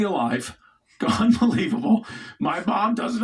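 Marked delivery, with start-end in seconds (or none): 1.0-3.2 high, laughing unbelievable; laughing disbelief. Real, not acted. Comic marvelling at the revived dog, laughing.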